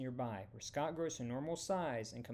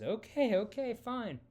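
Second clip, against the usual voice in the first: much higher, louder hurried giving in; panicked surrender; 9 semitones higher, 7 dB louder than usual. A narrator's reading. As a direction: hands up, backing down fast. Scott gives in, hands up.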